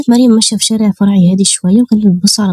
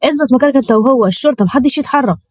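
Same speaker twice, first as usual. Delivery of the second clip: higher-pitched command, only mildly forceful; thundering police order; 4 semitones higher than usual. Acted. Officer raiding the kidnappers' warehouse, commanding order. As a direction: order everyone to freeze, voice raised in pitch. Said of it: "قال بصوت يزلزل مكانه".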